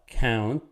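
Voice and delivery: "Count" set apart as its own beat; word broken up. Shown as a demonstration. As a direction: stop after "Count", the first piece of countenance. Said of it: "you would break it up right here".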